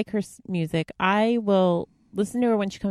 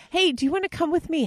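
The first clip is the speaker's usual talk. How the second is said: imitating friend; 11 semitones higher than usual. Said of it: "that was his".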